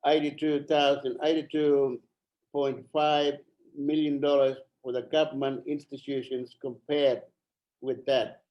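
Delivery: breathless, gasping between words; out of breath. Real, not acted. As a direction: speak short of air. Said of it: "running out of breath".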